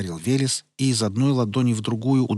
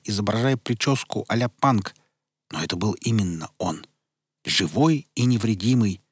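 plain reading voice

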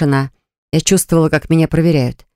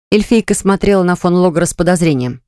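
ordinary delivery

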